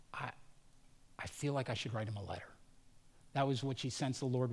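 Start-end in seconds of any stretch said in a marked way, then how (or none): 0.1-2.5 soft sleepy murmur. Retold or imitated. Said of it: "was like".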